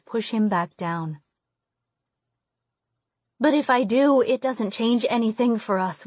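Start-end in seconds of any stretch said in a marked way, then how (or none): 3.4-6.1 pleading. Acted. Pleading with Will.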